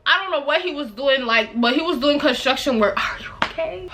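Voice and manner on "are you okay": high mocking echo. Repeating man's question mockingly.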